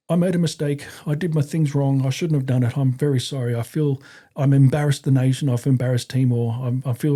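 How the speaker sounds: lightly acted, earnest apology; apologetic soldier. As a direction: imitate a soldier owning up to his superiors. Retold apology of the arrested soldier.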